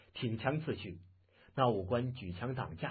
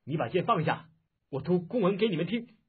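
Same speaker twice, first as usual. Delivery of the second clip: louder and higher nervous call; 6 semitones higher, 7 dB louder than usual. A narrator's reading. Frightened officer calls to the archer, loud nervous call. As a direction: call out anxiously to calm him. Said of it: "叫道".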